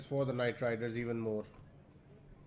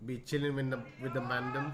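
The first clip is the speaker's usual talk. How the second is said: put-on London roadman accent. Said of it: "the Londoners say".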